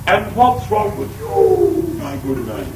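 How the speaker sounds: a hint of posh royal lady; lightly voiced posh visitor, slow; mild mock genteel tone. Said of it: "That's the way they talk".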